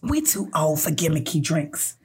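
mock-wise, drawn-out pronouncement; over-familiar date. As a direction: put on the smug date's voice. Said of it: "He was like".

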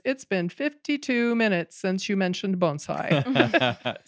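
lightly imitated dry British husband; a hint of dry British deadpan, laugh underneath; dry British accent. Husband checking his watch on his bonsai-obsessed wife, dry British accent. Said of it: "in his British accent. Very dry".

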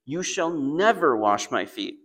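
slow, firm stress on never; a stubborn refusal, drawn out; audacious refusal. Retold or imitated. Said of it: "Imagine the audacity".

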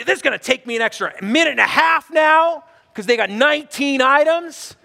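mildly exasperated complaint; indignant grumble. Acted. Shopper stuck behind an overloaded express-line customer, indignant. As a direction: gripe with a touch of outrage. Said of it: "your justice meter's going off".

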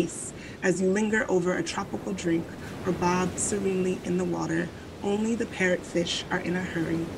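lightly sultry travel-blurb read; sultry narrator. Shown as a demonstration. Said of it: "give y'all the sultry voice".

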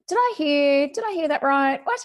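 disbelieving. Retold or imitated. Disbelief at the remark.

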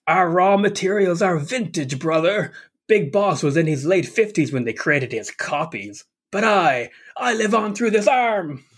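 slow, theatrical villain, rising to a high declamation; Liquid Snake. Acted. Villain taunting his brother from an arm, slow grandiose villain voice. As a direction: gloat like a grandiose villain, stretching the words. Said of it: "previous villain Liquid Snake living on through an arm".

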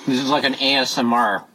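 talking between crunchy bites; crunching food on the mic; crunching while talking. Real, not acted. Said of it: "you can probably hear me crunching".

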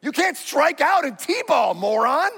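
high, sneering mock insults; mock bad dad. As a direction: caricature of a harsh father at T-ball. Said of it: "a good dad isn't like".

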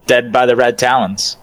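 offhand, unbothered answer; casual, matter-of-fact delivery of grim news; nonchalant. Acted. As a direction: toss it off as if it hardly matters. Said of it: "So nonchalant".

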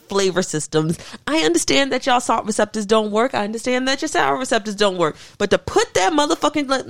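a proclamation to the nation, rising into an outraged rant; mock public address. Addressing America about Flamin' Hot Cheeto sushi, a mock sermon. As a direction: lecture America grandly, building to outrage.

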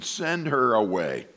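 slow, falling acted dismissal; mock-weary brush-off. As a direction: drag it out, dropping down. Disciples dismissing woman, acted.

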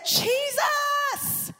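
a high shouted Jesus, breaking through; shouting the name Jesus; yelled Jesus. Retold or imitated. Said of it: "I had to yell".

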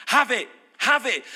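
a touch of irritated judge; exasperated judge. Acted. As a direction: snap it out to get rid of her.

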